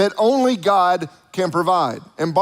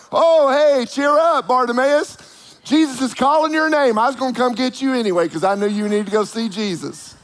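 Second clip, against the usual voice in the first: suddenly cheerful crowd; 5 semitones higher than usual. Retold or imitated. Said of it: "now they're like".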